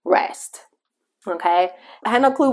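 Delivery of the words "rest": Holy Spirit's voice. Retold or imitated. Holy Spirit speaking to a rushed mother, hushed whisper. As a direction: breathe the word like a still small voice. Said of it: "I heard the Holy Spirit say".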